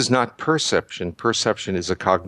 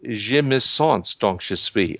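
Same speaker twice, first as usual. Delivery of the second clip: put-on French line in his self-styled horrible French accent, slowed down; slow French quote; slower than usual. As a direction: lay the French out slowly with an American accent. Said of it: "What if he had said".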